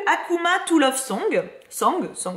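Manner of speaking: title read slowly in a heavy French accent of English. Real, not acted. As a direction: stumble over Song in a French-accented English. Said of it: "vous connaissez mon accent anglais".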